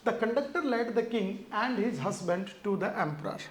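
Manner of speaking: reads the test sentence aloud very slowly; slow sentence reading. Shown as a demonstration. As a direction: dictate it word by word to the class. (धीरे-धीरे वाक्य पढ़ना)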